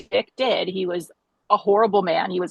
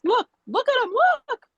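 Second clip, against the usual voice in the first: much higher, urgent insistence; insistent pleading. Retold or imitated. Patient insisting the doctor look at her results, urgent and high. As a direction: push them to just look.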